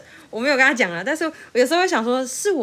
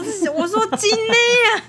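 high-pitched protest, far higher; 12 semitones higher, 5 dB louder than usual. Retold or imitated. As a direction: squeal it out in disbelief. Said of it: "然后我就想说".

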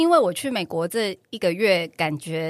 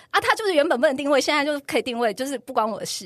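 snapping harshly; 4 semitones higher than usual. Retold or imitated. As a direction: snap back at him, fed up. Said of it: "我就很凶说".

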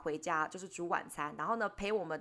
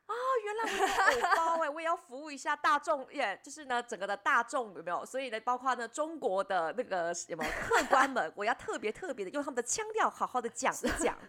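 put-on mainland Mandarin accent; 2 semitones higher than usual. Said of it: "发音马上变大陆腔了".

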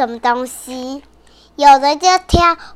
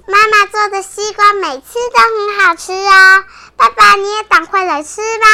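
put-on higher, sing-song little girl; little sister voice; 4 semitones higher than usual. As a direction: chirp it like a cheerful little sister.

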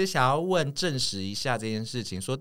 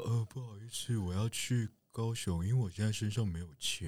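pleading beggar; 2 semitones lower, 8 dB quieter than usual. Retold or imitated. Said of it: "但他声音不是这样啦".

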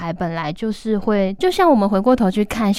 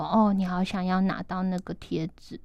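empathic soothing. Retold or imitated. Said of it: "我就会帮他说".

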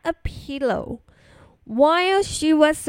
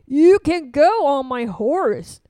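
general; 5 dB louder than usual. A narrator's reading. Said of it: "suggested the general".

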